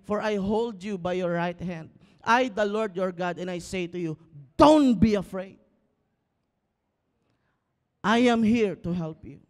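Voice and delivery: emphatic scripture reading. Acted. Pastor rereading the verse to the congregation, emphatic.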